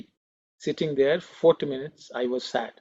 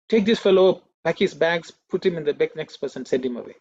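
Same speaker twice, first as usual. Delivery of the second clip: stern order; 4 dB louder than usual. Retold or imitated. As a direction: order him sent away, a retold stern master. Swami orders brother to expel him.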